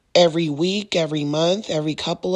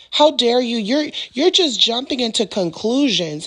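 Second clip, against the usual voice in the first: higher, indignant rant; mock angry outburst; 4 semitones higher than usual. Narcissist turning on a partner who asks questions, indignant. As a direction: snap back like an offended partner.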